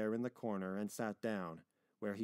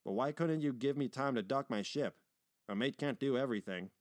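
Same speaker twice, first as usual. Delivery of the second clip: louder, put-upon ship's captain; aggrieved complaint; 3 dB louder than usual. Acted. Captain grumbling at being given no time to dock, aggrieved. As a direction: protest with a touch of grievance.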